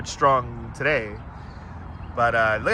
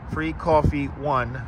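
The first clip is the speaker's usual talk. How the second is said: slow code dictation; 2 semitones lower, much slower than usual. Shown as a demonstration. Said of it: "It was all capital letters".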